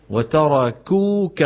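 "وتركوك" stretched out on the long vowel; slow kaf example. Shown as a demonstration. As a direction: draw out "وتركوك" as a teaching example. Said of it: "نطقها شبيهة بالقاف".

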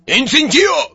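very high, loud incantation; shouted spell. A narrator's reading. Death Eater casting from behind Harry, high loud shout. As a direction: yell the curse at full pitch. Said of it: "пожиратель смерти позади него крикнул".

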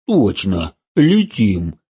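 excited gruff cry. Acted. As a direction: blurt it out excitedly. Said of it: "взволнованно произнёс Мотя".

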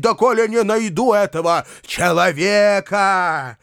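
a hint of theatrical grievance; mild dramatic complaint; Foma's self-pitying tirade. A narrator's reading.

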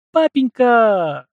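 very high, loud, long-drawn squeal; squeal of delight. A narrator's reading. Наталья squeals her thanks to her father. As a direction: shriek it out with joy. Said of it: "взвизгнула Наталья".

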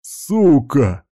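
cursing. A narrator's reading. Thug swearing as he is hit with a tile, angry. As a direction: spit out the curse mid-beating. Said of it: "изливаясь матом".

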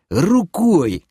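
high, slow, exasperated order; nearly yelling. Acted. Ordering the clever elf to point, barely not yelling. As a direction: strain to hold back a shout. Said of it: "едва не сорвался я на крик".

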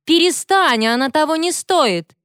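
high, urgent begging; a friend begging her to stop, high and urgent; urgent plea. A narrator's reading. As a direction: pull her back with your voice. Friend pulls attacker away.

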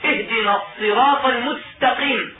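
المستقيم said with a ت in place of the س; ت instead of س. Shown as a demonstration. Teacher imitating a reciter who swaps letters. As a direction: swap the س in المستقيم for a ت. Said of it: "بالتاء بدل السين".

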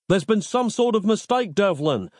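high-pitched protest, little added volume; yelling. A narrator's reading. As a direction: call out urgently to be heard. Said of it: "yelled Nick".

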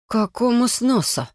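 sharp, slow displeased question. A narrator's reading. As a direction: snap it back, irritated. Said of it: "резче необходимого спросила я".

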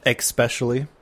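ESPECIALLY said as ex-specially; mispronounced ESPECIALLY. Shown as a demonstration. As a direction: put a k sound into ESPECIALLY. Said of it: "I used to say".

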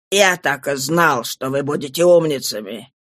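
calm inspector pitched low, in no hurry. A narrator's reading. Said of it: "спокойно сказал Жавер".

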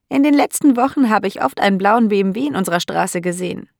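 a hint of a lonely elderly lady; old landlady. (leicht angedeutete alte, einsame Dame, etwas höher)

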